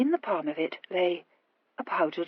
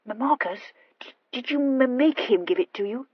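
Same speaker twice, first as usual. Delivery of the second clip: lightly voiced halting question; stammering Horatia, suspicious; 5 semitones higher than usual. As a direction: stammer warily towards the question.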